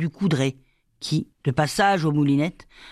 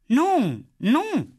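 put-on high, wailed child's refusal; acted tearful little girl, pitch leaping up; upset child protesting high; sobbing child; 10 semitones higher than usual. A narrator's reading. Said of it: "Lali éclata en sanglots".

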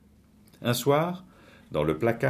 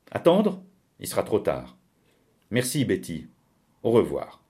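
dramatic, insistent character voice, lifted in pitch; acted desperate threat; 3 semitones higher, 3 dB louder than usual. Woman threatening suicide over the key, dramatic ultimatum.

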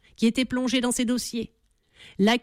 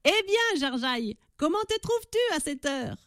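gloating laugh; 6 semitones higher than usual. A narrator's reading. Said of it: "riant d'un rire sonore".

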